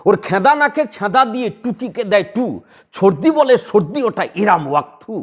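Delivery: a Nazrul verse recited in a bouncing beat; rhythmic recitation. Shown as a demonstration. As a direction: lilt it like a children's rhyme. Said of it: "প্রতিভাধর ব্যক্তি যখন সাজিয়ে বলছে". (ছন্দ মেনে আবৃত্তি)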